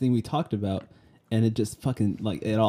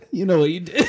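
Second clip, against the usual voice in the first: "You know what you did" said high and louder through laughter; laughing mock accusation; 7 semitones higher, 6 dB louder than usual. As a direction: laugh while mimicking the accusation.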